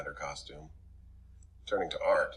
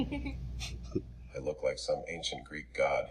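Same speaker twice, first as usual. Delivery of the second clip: muttering; 2 semitones lower, 6 dB quieter, much slower than usual. Acted. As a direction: mutter it slowly under breath. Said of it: "he mutters".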